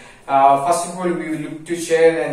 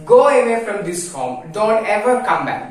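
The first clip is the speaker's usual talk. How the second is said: mild frightened plea; 5 semitones higher than usual. Acted. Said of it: "he is very frightened and he is saying to the ghost".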